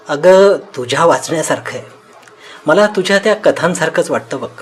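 acted laughter breaking into speech; doctor tickled by what he's read; amused, laughing. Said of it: "doctor हसू लागतो".

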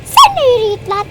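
real gamer rage shouting; yelling at enemies. Real, not acted. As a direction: scream them down as they die.

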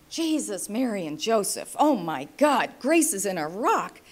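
father hearing his granddaughter is in Iraq, alarmed; shocked exclamation. Retold or imitated. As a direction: blurt it out in shock.

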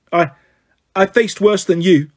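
shaky cry. Acted. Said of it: "Annabeth cried".

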